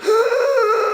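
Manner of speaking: high wheezing gasp; winded gasp. Shown as a demonstration. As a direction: gasp as if the wind is knocked out. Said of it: "get the wind knocked out of you".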